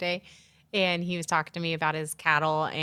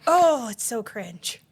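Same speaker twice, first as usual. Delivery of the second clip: cringing; 3 semitones higher, 4 dB louder, much slower than usual. Retold or imitated. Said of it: "I'm like".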